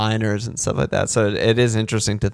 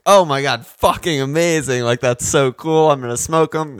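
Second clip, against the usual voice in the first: retold excitement; 4 semitones higher than usual. Retold delight at finding cigarettes.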